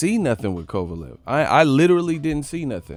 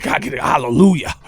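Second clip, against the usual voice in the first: retold preacher call. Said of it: "He said".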